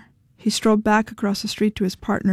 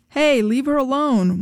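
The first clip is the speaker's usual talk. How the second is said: half-hearted shout, a bit higher; lackluster yell; 5 semitones higher than usual. A narrator's reading. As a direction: call out without conviction. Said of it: "yelled ... but it was lackluster".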